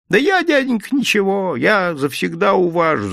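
high, wheedling fawning; butter up the yard-keeper. A narrator's reading. Vendor fawns on the yard-keeper, pitched high. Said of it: "залебезил мужик".

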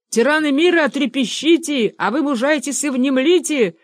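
high, loud rallying proclamation; крикнул. A narrator's reading. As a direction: cry it out like a rebel's slogan. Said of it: "крикнул и Бенедикт". (высокий громкий призывный возглас)

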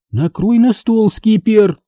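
"Накрой на стол" slow and firm, high; stern repeat. A narrator's reading. Mom sternly repeats order to set table, slow firm. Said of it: "строго повторила мама".

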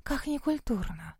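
gasped. A narrator's reading. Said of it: "ахнула Мелани".

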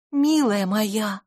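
медленно и нежно; утешить подругу; мягко. A narrator's reading. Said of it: "мягко произнесла". (мягко, медленно)

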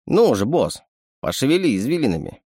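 a sly little animal sidekick; sly chittering raccoon. Acted. Raccoon teases.

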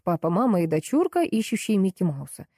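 ordinary delivery

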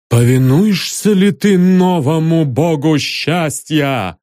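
solemn messenger. Acted. The messenger commands.

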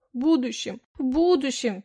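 mock his words back at him; mocking mimic. Wife mocking her husband's promises, parroting him. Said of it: "передразнила его".

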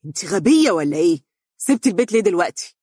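fast, sharp outburst; quick angry exclamation. Acted. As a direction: snap at her in anger. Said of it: "هتف بغضب".

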